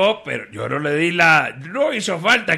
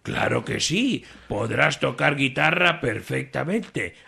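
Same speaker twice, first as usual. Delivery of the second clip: reassuring boss; 3 semitones lower, 5 dB quieter than usual. Acted.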